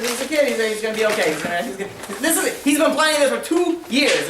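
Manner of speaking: rising, exasperated protest; insistent protest. Acted. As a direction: act out a father stubbornly insisting. Father protests against going to hospital.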